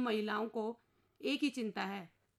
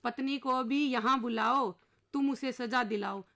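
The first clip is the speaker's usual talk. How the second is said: poem recitation; 4 dB louder than usual. Acted. Husband's plea recited as verse.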